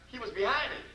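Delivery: normal talking voice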